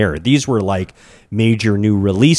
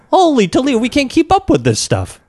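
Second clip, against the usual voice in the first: exclaiming; 13 semitones higher, faster than usual. Real, not acted. Exclaiming about news overload.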